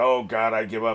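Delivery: mock-whiny despair. Complaining about a show's character, imitating his whining despair. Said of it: "his constant whining and despair".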